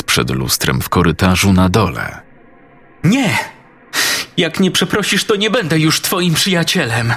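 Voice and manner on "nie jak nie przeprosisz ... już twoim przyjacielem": put-on much higher child's voice, sulky and upset; a small boy throwing a tantrum at his friend; angry little boy. Daniel scolds the friend in the mirror, high angry child voice.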